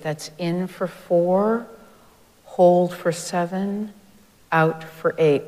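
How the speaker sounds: slow instruction, each number weighted; slow, deliberate counting. Shown as a demonstration. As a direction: spell out the count slowly. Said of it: "explains the breath count slowly".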